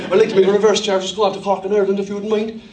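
brisk, polite Irish phone voice; own Irish accent. Acted. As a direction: rattle off the request in Irish accent. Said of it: "change your accent and you were there".

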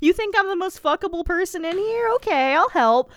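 a hint of a sweet dim guy; voicing Daniel. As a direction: play Daniel as a willing, simple helper. Daniel voiced in a retelling.

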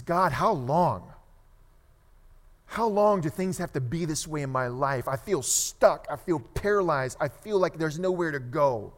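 acted-out desperate prayer; crying out to God. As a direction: plead in desperation, leaning on key words. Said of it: "he's just crying out to God".

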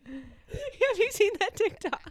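asked through real laughter; can barely get the words out for laughing. Real, not acted. Co-host asking about a TikTok, laughing hard.

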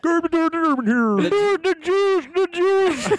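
yelling. Acted. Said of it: "yelling in the mic".

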